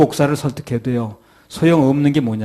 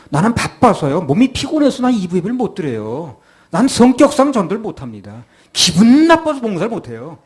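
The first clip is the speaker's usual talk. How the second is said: mock excuses; 5 semitones higher, 3 dB louder than usual. Mocking churchgoers' excuses.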